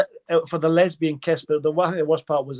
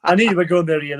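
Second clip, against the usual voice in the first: higher, louder, through real laughter; laughing; 3 semitones higher, 6 dB louder than usual. Real, not acted. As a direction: say it laughing at a friend's crude joke. Co-host laughs at crude joke.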